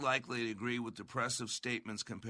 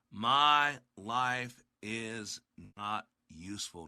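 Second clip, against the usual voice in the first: hopeless; 3 semitones lower, much slower than usual. Retold or imitated. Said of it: "Don't you hear it?".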